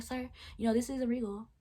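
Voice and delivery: polite demo. Shown as a demonstration. Cashier showing how politely she told the customer "this isn't Regal". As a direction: lift the voice up, sweet and courteous. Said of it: "and I said it".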